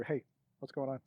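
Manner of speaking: softly spoken, confidential; hushed aside. Acted. Player pulling Lord Lee aside, hushed. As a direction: drop the volume for a private word. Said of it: "and I whisper".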